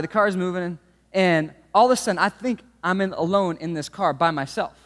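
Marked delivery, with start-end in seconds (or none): none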